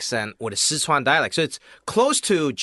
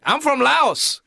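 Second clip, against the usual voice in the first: Laotian neighbor; 11 semitones higher, 3 dB louder, slower than usual. Retold or imitated. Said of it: "And he's like".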